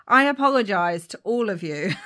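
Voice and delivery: loud, laughing mock apology; amused at your own bad accent, breaking into laughter. Real, not acted. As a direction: apologise loudly through real giggles.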